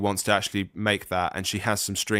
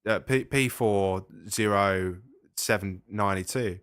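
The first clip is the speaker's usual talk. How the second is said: put-on Australian accent. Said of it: "you were indulging your Australian accent there".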